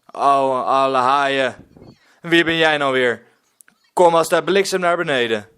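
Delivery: angry shout. Acted. Pirate Willem yells at boy on the roof, angry shout. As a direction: roar at the boy to come down now. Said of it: "roept Willem kwaad".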